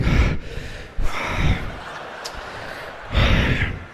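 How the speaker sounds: heavy exhale. Retold or imitated. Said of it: "he's totally out of breath".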